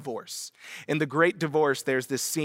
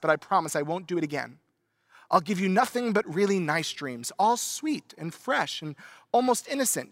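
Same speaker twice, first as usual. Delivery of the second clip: piping lizard; 3 semitones higher than usual. Acted. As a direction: coax him like a sly pet lizard. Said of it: "pipes up".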